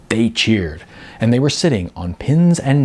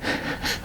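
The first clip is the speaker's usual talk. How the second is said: short laugh; 11 dB quieter than usual. A narrator's reading. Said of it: "The clerk laughed again".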